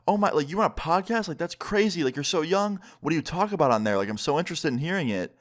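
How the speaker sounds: imitating an amazed mom, high-pitched; mock freaking out. Mom hears he runs a podcast, imitated freaking out. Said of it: "she starts freaking out".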